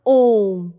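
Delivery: ओम with the O held very long on one note; extra-long vowel. Shown as a demonstration. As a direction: stretch the vowel of ओम to triple length. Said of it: "तिगुना समय लगता है". (ओम के ओ को खूब लंबा खींचकर बोलें)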